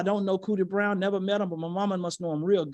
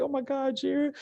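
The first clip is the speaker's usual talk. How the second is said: mock breathless gasp, a touch higher; out of breath; 5 semitones higher, 3 dB quieter, slower than usual. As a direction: play the winded little sister, lightly. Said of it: "My sister still breathing hard".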